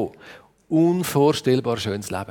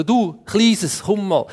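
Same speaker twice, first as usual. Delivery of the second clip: lightly acted, higher-pitched call; calling a little animal; 4 semitones higher, much slower than usual. Adam calls a little animal to be named, higher beckoning. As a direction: coax the little one over in higher pitch.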